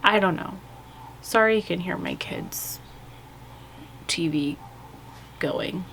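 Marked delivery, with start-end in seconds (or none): 1.2-5.8 whisper. Real, not acted. Aside about the kids' TV.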